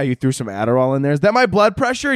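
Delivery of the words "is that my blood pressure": put-on old aunt voice. Old aunt asking about pills.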